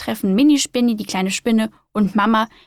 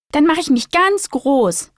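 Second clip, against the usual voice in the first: happy; 5 semitones higher, slower than usual. Acted. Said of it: "freut sich die kleine Spinne".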